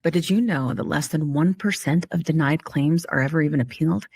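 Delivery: smooth sponsor read; host ad read for the sponsor. Acted. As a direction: sell it like a podcast ad.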